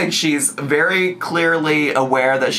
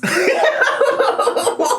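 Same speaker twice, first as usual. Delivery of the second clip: laugh. Real, not acted. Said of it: "laughing at own impression".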